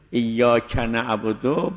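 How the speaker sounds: slow, with a break after ایاک before نعبدو; ایاک set apart from نعبدو by a clear gap; pause after iyyaaka. Shown as a demonstration. Teacher models the pause in ایاک نعبدو, slowly. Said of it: "بعد از ایاک توقف کنه".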